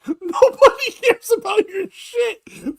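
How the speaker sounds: mocking family member. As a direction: sneer it out as a relative. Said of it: "Isn't the other family members like".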